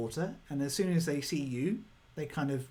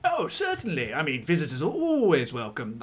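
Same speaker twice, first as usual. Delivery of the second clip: pompous walrus lord; 5 dB louder than usual. Acted. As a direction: welcome them with glee. Walrus welcoming.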